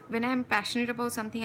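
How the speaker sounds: rattled off fast in a rush of passion; fast, eager, tumbling speech; speeding up. Real, not acted. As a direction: race through the words, carried away. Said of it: "see, my speed has increased".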